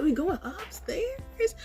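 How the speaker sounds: high and drawn-out confusion; slow puzzled question. Retold or imitated. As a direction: stretch it out, bewildered. Confused in dream.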